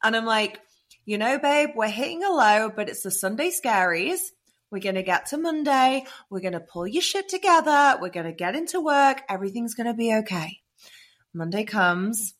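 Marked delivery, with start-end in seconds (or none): 1.0-10.6 a lifted, mock-chirpy pep talk; reassuring pep talk. Woman rallying herself on the train, reassuring pep talk. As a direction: talk yourself round, pitched up.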